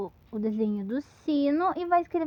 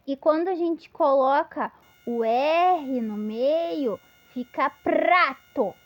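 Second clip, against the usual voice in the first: slow demo; slower than usual. Shown as a demonstration. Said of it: "a gente explica que tem uma letra tremendo".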